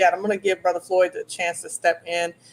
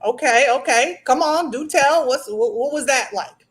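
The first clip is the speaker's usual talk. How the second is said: higher, louder, intrigued coaxing; eager prodding; 5 semitones higher, 4 dB louder than usual. Real, not acted. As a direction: egg them on to spill the story. Host eagerly prods guest's confession.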